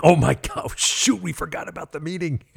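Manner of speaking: high, loud oh-my-God through laughter; panicked giggle at a blunder; laughing panic. Retold or imitated. Realizing the group forgot the meeting, laughing panic.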